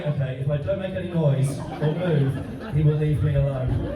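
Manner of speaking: Liv's imagined inner voice, slow and wary; mock nervous inner voice. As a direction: play the frightened girl's thoughts, drawn out. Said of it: "she's sort of looking at the floor going".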